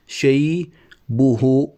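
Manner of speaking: شيبه stretched very slowly as شيبهو, syllable by syllable; slow drawn-out scansion. Shown as a demonstration. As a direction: draw out شيبه, lengthening the final vowel to a long u. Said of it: "إذا وقفنا عند الياء". (مدّ كلمة شيبه ببطء شديد مع إشباع الضمة واوًا)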